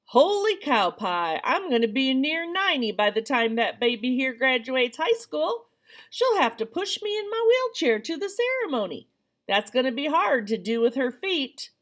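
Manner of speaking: hammed-up Texas accent, barely there; bad Texas accent. Teen mocking grandmother in a bad Texas accent. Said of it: "Your Texas accent is awful".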